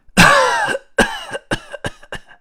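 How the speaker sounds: loud hacking cough, tailing off; old man's coughing fit. A narrator's reading. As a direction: cough hard like a worn-out old man. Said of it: "他不时停下来喘口气儿".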